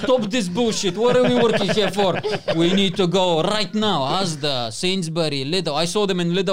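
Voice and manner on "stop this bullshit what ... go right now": loud, raised, rapid demand; mock-frantic call to action; urgent rallying. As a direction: burst in and order everyone out immediately. Acts out urgently rallying colleagues.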